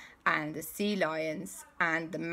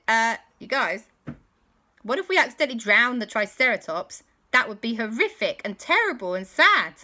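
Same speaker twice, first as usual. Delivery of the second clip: worried aunt; 4 semitones higher, 6 dB louder than usual. Acted. Auntie Lisa worries.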